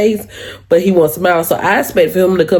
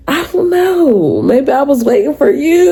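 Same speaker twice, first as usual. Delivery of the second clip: flirty answer; 7 semitones higher than usual. Retold or imitated. Answering him why she's single, coy and flirty. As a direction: tease him sweetly. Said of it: "I was like".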